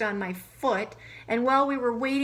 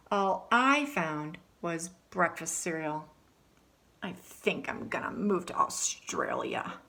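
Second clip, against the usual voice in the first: story narration as Alexander. Acted. Reads in Alexander's voice.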